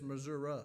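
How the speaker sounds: Missouri ending in uh, Missour-uh; imitating locals. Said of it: "fussing at me for saying Missouri".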